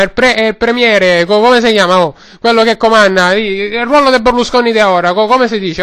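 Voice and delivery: lightly voiced Roman street vendor; Roman-accented vendor rambling away; Roman ice-cream seller. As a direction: talk like a chatty Roman gelato man.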